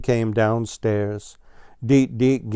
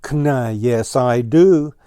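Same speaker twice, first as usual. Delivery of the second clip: crowing; 6 dB louder, slower than usual. Acted. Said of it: "crowed Blue Jay".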